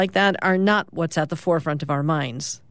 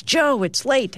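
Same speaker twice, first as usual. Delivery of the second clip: Ruthie waking brother; 7 semitones higher, slower than usual. Acted. Ruthie wakes her brother.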